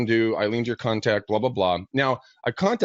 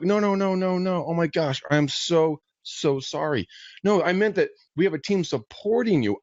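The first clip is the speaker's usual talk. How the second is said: higher, hurried, eager to reassure; flustered apology; 7 semitones higher, slower than usual. Retold or imitated. Agent scrambling to reassure a lost client, higher. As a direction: rush to say sorry.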